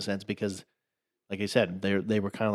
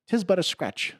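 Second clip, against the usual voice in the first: mock Black Knight; 9 semitones higher than usual. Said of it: "He's like".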